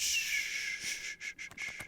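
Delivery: soft unvoiced shh, fading to nothing; dismissive whispered shh; whispered shushing. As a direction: hush her like a child. Silencing her interruption.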